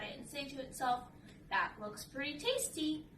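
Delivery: lively read-aloud for children, voicing Piggy and Dad; storybook reading. A narrator's reading. Reading a fishing picture book to kids, lively storybook voice.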